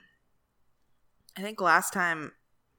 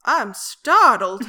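mock startled; 4 semitones higher, 13 dB louder, much slower than usual.

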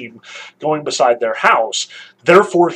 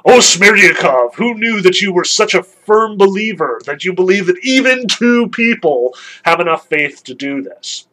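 gleefully mock the servant's surprising faith; excited Fyodor; 4 semitones higher, 5 dB louder than usual. Old father teasing Smerdyakov about believing hermits, excited. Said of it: "Notice that Fyodor gets excited about this".

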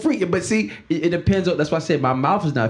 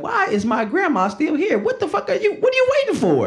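mock exasperated; 12 semitones higher than usual. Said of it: "I question this shit all the time".

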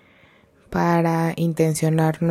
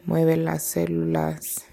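calm, measured meditation guide with long pauses; guided meditation. Real, not acted. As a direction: guide them gently inward, leaving space between phrases. (meditación guiada, tranquila y pausada)

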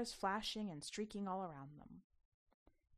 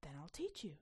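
low, breathy whisper; a mysterious guide whispering; whispered secret; 4 semitones lower, 5 dB quieter than usual. Acted. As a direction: let her in on a secret. Jedi girl's note, whispered.

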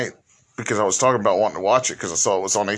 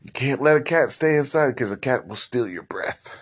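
light mock Romani accent; imitating a Romani grandma accent. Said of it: "he uses, like, a foreign gypsy accent".

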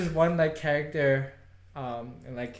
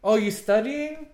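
awkward opener; 7 semitones higher, 4 dB louder, slower than usual. Retold or imitated. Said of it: "but I'm like".

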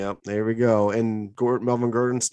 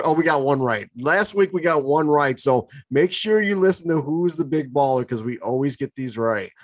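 mock boasting, pitched up at first; sarcastic; 2 semitones higher than usual. Real, not acted. Co-host touting the show's big baller picks to listeners, sarcastic. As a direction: brag with obvious irony. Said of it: "It's sarcasm".

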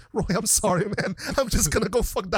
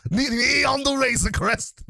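mock announcer title; 6 semitones higher, slower than usual. Shown as a demonstration. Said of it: "I'm calling this segment".

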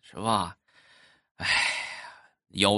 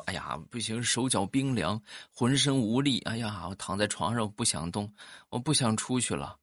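feeble wife; 5 dB quieter than usual. Retold or imitated. Wife resting after childbirth.

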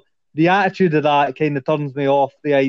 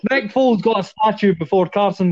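laughing; 2 semitones higher than usual. Real, not acted. Laughing at the Foles statue.

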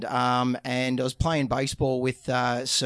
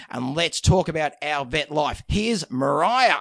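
hammed-up podcast intro. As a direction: sell it like a larrikin announcer. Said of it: "you should do every single intro for me".

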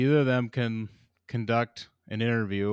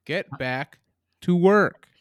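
barking boss; 5 semitones higher, 8 dB louder, slower than usual. Retold or imitated. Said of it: "You're just a peon".

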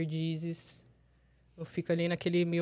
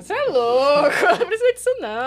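laughing through words; 7 semitones higher, 10 dB louder than usual. Real, not acted. Laughing while quoting herself.

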